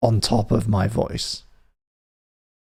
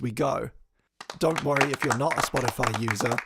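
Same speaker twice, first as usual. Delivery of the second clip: softer read-through of the show's rules; scripted explainer; 2 semitones higher, 8 dB quieter than usual. Acted. Host explains the Spotify jam to chat, softer scripted read. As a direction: read the rules like a recorded intro.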